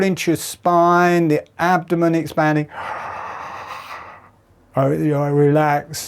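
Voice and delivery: talking through a yawn as it happens; guided yawn cue. Shown as a demonstration. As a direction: coach the yawn step by step. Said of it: "And then another big yawn".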